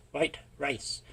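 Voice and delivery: whispered joke aside. Real, not acted. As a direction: drop to a sly whisper. Joking aside about rice.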